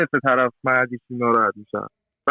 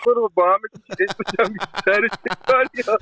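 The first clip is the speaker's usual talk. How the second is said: teasing advice; 8 semitones higher, slower than usual. Retold or imitated. Advice to smoking father and son.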